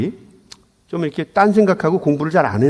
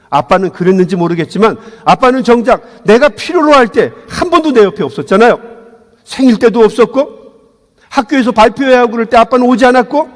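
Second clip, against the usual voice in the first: put-on higher, louder accusing teen; son's accusation; 5 semitones higher, 4 dB louder than usual. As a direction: hurl the complaint at the father. Son accuses father.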